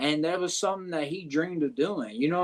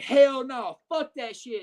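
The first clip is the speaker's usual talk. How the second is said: mock furious yell, pitched higher and louder; retold angry outburst; 8 semitones higher, 4 dB louder than usual. Friend cuts in on the apology, higher mock angry yell. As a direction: bark it out like the angry friend butting in.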